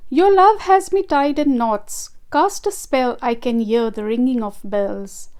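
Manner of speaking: measured, lilting poetry reading; poem recitation. Acted. Artist recites her ocean poem to viewers, gentle poetic reading. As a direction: read it like a heartfelt poem to an audience.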